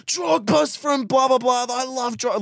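excited football fan. Retold or imitated. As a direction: gush about Drogba. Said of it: "And I go".

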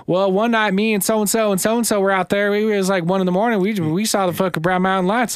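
put-on mild Southern girl telling her sighting; Southern child accent. Host retelling the niece's story in a light Southern girl accent. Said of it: "You doing Southern child accents now?".

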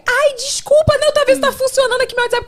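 high, put-on innocent apology; mock apology. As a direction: squeak out a fake sorry. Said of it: "Aí depois fica". (desculpa fingida e aguda)

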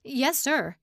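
high-pitched yes sir. A narrator's reading. Secretary scurrying from his boss, high-pitched. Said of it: "with a high-pitched".

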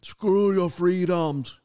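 slow, loud, hammed-up Austrian accent; bad Austrian accent impression, stretched and punched; Arnold Schwarzenegger. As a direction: draw out each word in a heavy Austrian accent. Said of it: "that's a horrible a-, accent".

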